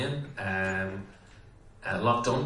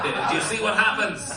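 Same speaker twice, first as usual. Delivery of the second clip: mock shout; 10 semitones higher, 3 dB louder than usual. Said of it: "he would shout out every so often".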